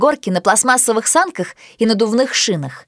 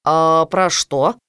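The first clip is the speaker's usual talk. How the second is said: put-on lower, slow, nosy boy voice; curious boy; 7 semitones lower, much slower than usual. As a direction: peek and ask, curious. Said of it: "полюбопытствовал Финн".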